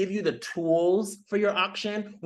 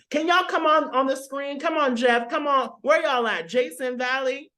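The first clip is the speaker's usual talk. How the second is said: calling out; 5 semitones higher than usual. Real, not acted. Host calls panelists onto screen.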